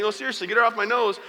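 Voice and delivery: high, loud comic protest; mock pained pleading. Dad pleading with squeezed nose.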